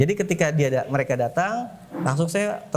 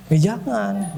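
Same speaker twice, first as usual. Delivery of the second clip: quick refusal; 7 semitones higher, 3 dB louder, much slower than usual. Retold or imitated. Teen refusing counselor's offer.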